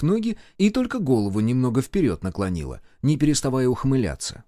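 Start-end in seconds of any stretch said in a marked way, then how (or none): none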